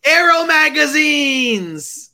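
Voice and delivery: high, drawn-out triumphant cry; gleeful exclamation. Real, not acted. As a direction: blurt out the answer, stretching it right out. Blurting out the forgotten answer.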